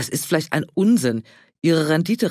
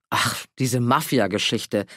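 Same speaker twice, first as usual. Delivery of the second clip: slow, lower, dismissive sigh; 4 semitones lower, slower than usual. Acted. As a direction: brush the theory off slowly. Walter dismisses Heinz's theory.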